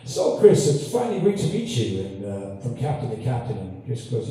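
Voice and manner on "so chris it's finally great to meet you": higher-pitched greeting, lightly acted; mock celebrity greeting, pitched up at the start; lightly voiced Shatner. Shatner greets the astronaut on screen, lightly imitated, higher. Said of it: "when Shatner said".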